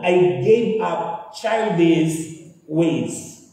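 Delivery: slow, weighty Bible verse read; slow scripture reading. Acted. Preacher reads verse slowly. (mabagal na pagbasa ng talata)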